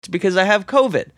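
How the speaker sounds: stuffy nasal voice from a cold; speaking through a blocked nose. Real, not acted. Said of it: "my voice sounds kinda nasally".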